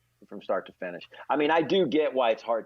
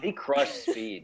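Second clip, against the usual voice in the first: whisper; 2 semitones lower, much slower than usual. Real, not acted. Whispered aside.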